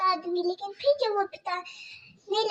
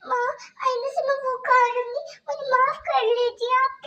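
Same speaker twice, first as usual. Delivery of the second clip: put-on much higher, small pleading girl voice; pleading young girl; 5 semitones higher than usual. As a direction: Kajal begging her stepmother about stomach pain. Kajal begs forgiveness.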